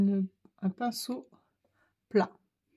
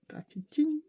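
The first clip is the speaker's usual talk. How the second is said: breathy trying-out of the word; a private whispered echo of the name; whispered repeat; 6 semitones higher than usual. Real, not acted. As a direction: whisper the brand name back to yourself. Repeats the brand name to herself.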